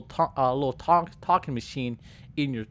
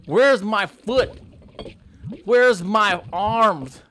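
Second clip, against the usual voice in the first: higher, very slow, louder anguished wailing; slow dazed panic; 6 semitones higher, 6 dB louder, much slower than usual. Acted. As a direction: wail in slow shock at missing limbs. Limbs bitten off by gator.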